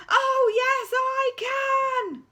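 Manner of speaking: loud panto retort; deputy head thundering at the school. Acted. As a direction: thunder it back defiantly. Panto exchange.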